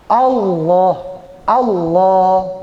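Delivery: "Allah" with a heavy, dark l and a rounded vowel; heavy tafkhim Allah. Shown as a demonstration. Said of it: "itu dibaca berat".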